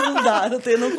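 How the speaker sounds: shaky from the cold, laughing; trembling, laughing through the chill; shivering with cold. Real, not acted. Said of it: "eu tô me tremendo de frio".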